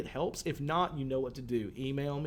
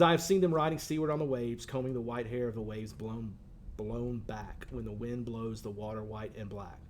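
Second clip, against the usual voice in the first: lingering recital of the closing stanza; poem reading. Acted. Teacher reads poem aloud.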